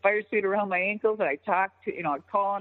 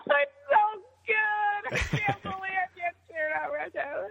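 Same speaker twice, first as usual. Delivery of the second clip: overjoyed, choked-up; 12 semitones higher than usual. Retold or imitated. Wrestler answers worried crew chief, mock tearful joy. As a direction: imitate being too happy to speak, squeaking through mock tears. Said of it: "I couldn't say anything".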